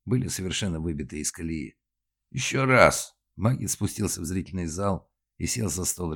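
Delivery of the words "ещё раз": sharp raised director's call; loud command. Acted. Director shouting at the actors, loud. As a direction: order the actors to go again. Director demands another take.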